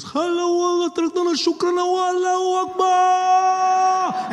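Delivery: high, loud war cry building to a long held note; hammed-up shouted Arabic outburst; mock attacker's shout. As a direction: bellow it, stretching the last word. Imagined attacker shouting on the plane.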